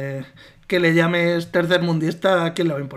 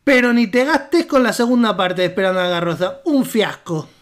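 put-on Argentine accent; 2 semitones higher, 3 dB louder than usual. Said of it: "cuando no estoy leyendo, hablo normal".

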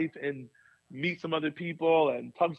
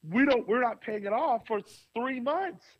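higher, exasperated budget rant; frustrated complaint; 5 semitones higher than usual. Retold or imitated. Pastor at the board meeting, frustrated and higher. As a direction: air the grievance, puzzled and fed up. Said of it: "And I got so frustrated".

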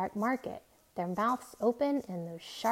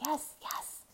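breathless; 6 semitones higher, 7 dB quieter than usual. A narrator's reading. Straining to hear engine.

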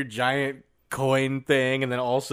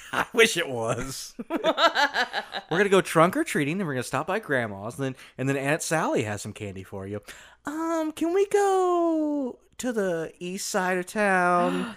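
preschooler voice; 4 semitones higher than usual. Acted. Kid voice planning treats.

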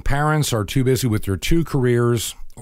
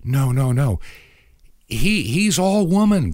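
mock high voice; 4 semitones higher than usual. Mocking a caller who insists he is all woman. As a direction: lift the pitch way up in mockery.

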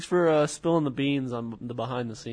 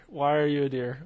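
voice cracking. Real, not acted. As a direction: voice cracks mid-question. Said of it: "Why did my voice crack?".

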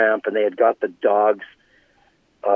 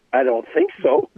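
much higher, cocky brush-off; mock star voice, pitched way up; imitating Brett. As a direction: wave off the guard like a star. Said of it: "he's just had a reaction to everything".

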